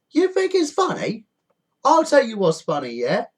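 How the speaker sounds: angry sarcasm. Real, not acted. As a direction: dare them to laugh. Ranting at panic buyers.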